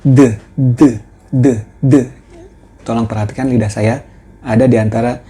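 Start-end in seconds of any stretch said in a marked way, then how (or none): 0.0-1.9 "D" said as a voiced th with the tongue between the teeth, louder; voiced th sound, loud; voiced th drilled. Shown as a demonstration. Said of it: "itu dibaca".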